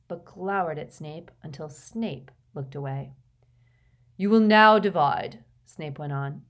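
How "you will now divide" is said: loud, sharp order to the class; teacher's loud command. A narrator's reading. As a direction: bark the instruction across the room.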